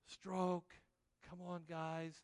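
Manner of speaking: tired coxswain calls. Acted. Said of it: "the role of the coxswain".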